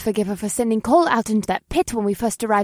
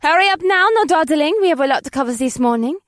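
loud, high, brisk call to students; urgent teacherly call; 7 semitones higher, 6 dB louder than usual. Acted. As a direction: hustle the class along from afar. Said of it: "Olivia's voice called out".

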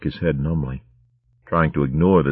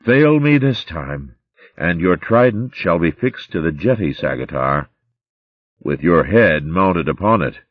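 menacing. Acted. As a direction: threaten your captain coldly. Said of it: "his voice laden with menace".

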